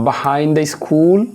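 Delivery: drawn-out answer option; teacher reading options aloud; very slow reading. Acted. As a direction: read each option out slowly.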